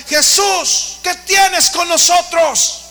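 high, loud demon cry, slow on the question; demon screaming. Acted. Possessed man crying out at Jesus, loud high shriek. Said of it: "empezó a gritar".

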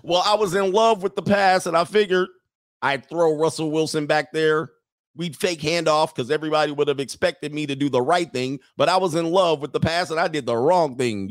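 a coach making excuses at a press conference; lightly voiced Pete Carroll. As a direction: play the coach explaining his blunder. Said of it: "we got Pete Carroll".

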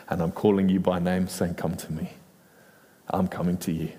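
low, gentle voice of a loving God; understated, intimate low delivery; tender assurance. Acted.

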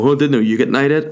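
mock-innocent sarcastic jibe; boyfriend's sarcasm. Boyfriend's imagined sarcastic comeback.

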